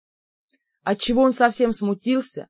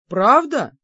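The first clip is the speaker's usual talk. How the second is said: sincerely amazed; 3 semitones higher, 4 dB louder than usual. A narrator's reading. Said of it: "изумился он".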